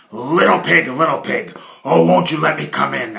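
loud, coaxing big bad wolf; sly wolf. Wolf knocks on Harold's door, loud and coaxing. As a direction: lure the pig out, loud and sweet. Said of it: "asked the wolf".

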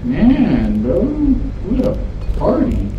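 hammed-up party cheer. Hammy repeated party line.

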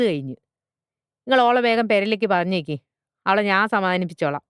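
lively, insistent refusal; stubborn butcher father. Acted. Butcher father refuses teacher over the phone, stubborn and insistent. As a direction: talk over objections like a hard-headed trader.

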